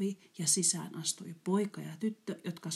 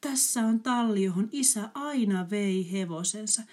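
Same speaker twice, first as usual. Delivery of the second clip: pensive; 4 semitones higher, 3 dB louder than usual. Acted. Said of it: "sanoi poika miettiväisesti".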